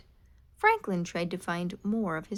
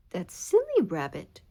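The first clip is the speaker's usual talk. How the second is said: scoffing; 4 dB louder than usual. Acted. Beaver scoffs at Rabbit's ghost story.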